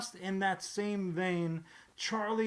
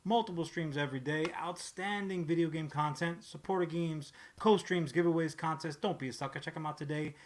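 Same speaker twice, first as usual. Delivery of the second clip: ad read; faster than usual. Acted. Sponsor ad read.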